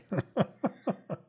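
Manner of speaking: short real laugh at your own mishap; rueful chuckle after a slip; amused laugh. Real, not acted.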